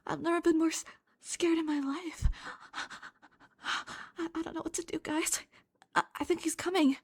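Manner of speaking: high, mock-frightened voice; hammed-up YouTuber panic; mock scared.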